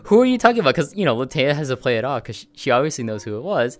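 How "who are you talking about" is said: higher and louder feigned question; mock surprise. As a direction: play dumb, loudly and brightly. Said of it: "And I just like".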